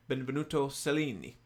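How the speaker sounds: light Italian accent on the name. Shown as a demonstration. Host shows off reading a sculptor's name, Italian accent. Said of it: "that was my Italian accent".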